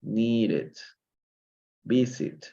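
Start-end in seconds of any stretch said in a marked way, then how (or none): 0.0-0.8 "needed" in two clear syllables; last syllable pronounced. Shown as a demonstration. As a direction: sound the final -ed of "needed" as its own syllable. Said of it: "se pronuncia la tercera, la última sílaba".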